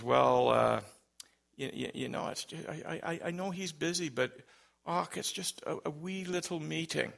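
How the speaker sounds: soft, stammering Scottish caller imitation; thick Scottish accent. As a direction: plead lightly as a hesitant Scot. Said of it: "had a very thick Scottish accent".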